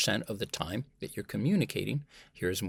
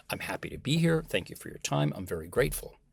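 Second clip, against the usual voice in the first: mild enthusiasm; 4 semitones higher than usual. Shown as a demonstration. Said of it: "say that with energy and enthusiasm".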